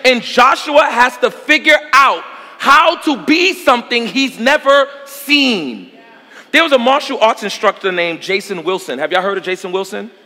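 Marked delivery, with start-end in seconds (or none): 0.0-5.9 slowed. Real, not acted. Preacher builds slowly.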